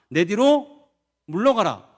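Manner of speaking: stern rebuke. Acted. Jesus rebukes Peter.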